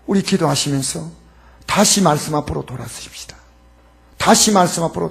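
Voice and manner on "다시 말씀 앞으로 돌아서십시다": low hushed whisper of the call. Acted. Pastor quietly urging the church back to the Word, whispered. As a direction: breathe it as a whisper.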